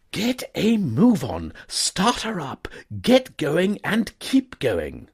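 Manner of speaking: high, loud, pressing orders; panicked gentleman; urgent young toff. A narrator's reading. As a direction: hurry the driver off. Wooster voiced.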